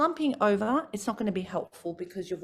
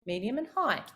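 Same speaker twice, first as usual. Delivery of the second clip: low to high; 4 dB louder, slower than usual. Shown as a demonstration. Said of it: "I'm going low".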